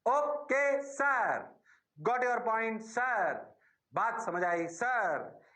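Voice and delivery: drawn-out, slow student reply; mock eager student. Teacher playing a pupil who says he understood, slow and drawn out. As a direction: play the dutiful pupil answering sir.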